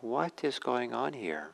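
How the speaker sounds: slow, measured question, pitched a little up; calm lion. Retold or imitated. Lion to the panicked animals, calm and slow. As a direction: ask it calmly, taking your time. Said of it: "says to them calmly".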